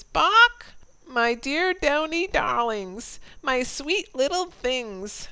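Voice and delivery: a proud hen bragging about her chicks; clucking hen. Acted. Old hen boasting to the yard about her ten chickens, high and squawking. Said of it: "I heard her say".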